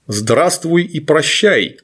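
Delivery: slow gurgling monster greeting. Acted. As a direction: drag it out in a wet gurgle. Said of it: "произнёс булькающий голос".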